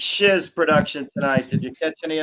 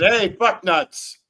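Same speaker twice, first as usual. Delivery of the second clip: demo rude greeting; much slower than usual. Shown as a demonstration. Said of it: "you just have to start out with".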